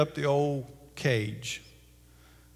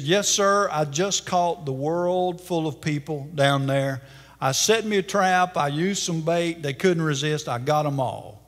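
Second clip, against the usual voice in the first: gloating. Acted. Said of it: "he was gloating and boasting".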